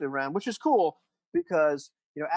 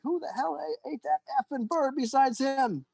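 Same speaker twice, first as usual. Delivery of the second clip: high-pitched, drawn-out mock outburst; blaring outcry; 11 semitones higher than usual. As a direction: play an outraged crewman crying out high. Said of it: "the sound of a Blair going like".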